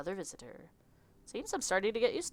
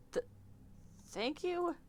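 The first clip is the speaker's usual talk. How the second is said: flustered Southern; 12 semitones higher, 8 dB quieter, slower than usual. Acted. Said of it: "I don't know why he's Southern".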